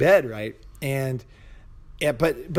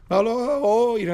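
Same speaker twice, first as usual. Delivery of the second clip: high, casual call of the name; nonchalant doctor; 9 semitones higher than usual. Retold or imitated. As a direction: toss the name off lightly as the carefree doctor. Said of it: "very fucking nonchalant".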